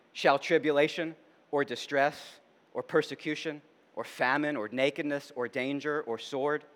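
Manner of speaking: quiet, deliberate recitation of scripture; scripture reading. Real, not acted. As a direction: read the passage out solemnly, phrase by phrase. Reads scripture aloud.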